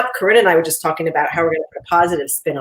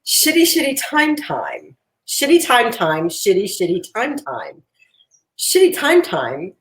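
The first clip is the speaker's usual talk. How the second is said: slow, lilting storytime voice, pitched higher; kindergarten teacher voice; 5 semitones higher than usual. Acted. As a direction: read it like a sweet kindergarten teacher. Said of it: "kindergarten teacher's voice".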